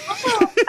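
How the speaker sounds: high burst of giggling; giggle. Real, not acted. Giggling at the dirty joke. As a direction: giggle at the thought.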